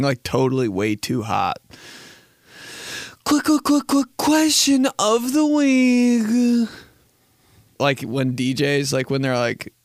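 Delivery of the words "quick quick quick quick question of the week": much higher, very slow sultry announcer; sexy voiceover. Shown as a demonstration. Host doing exaggerated sexy segment intro. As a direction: sing it out high like an over-the-top promo. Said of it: "some sexy voiceover like that".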